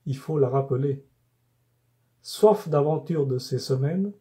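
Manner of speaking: measured poem reading, phrase by phrase with pauses; poem recitation. Acted. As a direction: recite it in even, carefully articulated cadences. Récite son poème sur le stage. (récitation de poème, posée et rythmée)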